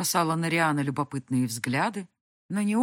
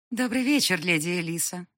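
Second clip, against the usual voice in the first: chirping; 5 dB louder than usual. Acted. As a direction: chirp it sweetly like a hostess. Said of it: "прощебетала мадам Розалинда".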